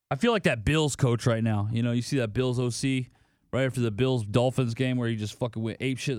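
ordinary talk, nothing marked

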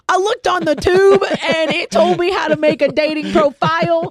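high, slow mock Boston accent, laughing; a laughing, hammed-up Boston accent; poor Boston accent. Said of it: "I was trying to do actually a Boston accent".

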